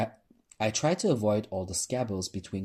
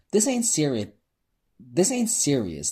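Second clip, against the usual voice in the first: loud, higher heckle slowing down; yelled heckle; 6 semitones higher, 5 dB louder than usual. A narrator's reading. Audience member yells back at the host, loud and scoffing. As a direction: scoff it from the crowd. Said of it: "someone yelled".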